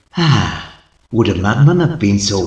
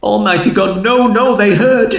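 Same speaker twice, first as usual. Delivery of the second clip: high, loud desperate cry; frantic outcry; 10 semitones higher, 4 dB louder than usual. Acted. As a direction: break down as you realise they know. Narrator breaks in terror.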